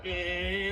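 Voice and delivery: low, soft mock grunt; a lazy little Trump grunt. Comic's quiet lazy grunt passed off as Trump. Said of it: "that's a great Trump impression".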